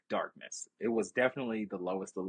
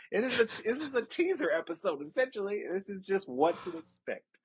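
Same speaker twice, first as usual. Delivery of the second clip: high excited tease; 9 semitones higher than usual. Real, not acted. Excited promo of episode.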